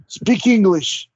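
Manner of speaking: stern command. Acted. Player demands English from prisoner.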